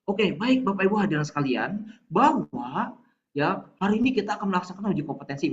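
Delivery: measured, formal address to the room; serious. Shown as a demonstration. Trainer demonstrates opening a competency exam to participants, serious. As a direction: open the session in earnest. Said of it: "Kalau misalkan lagi serius, Bapak Ibu menyampaikan serius".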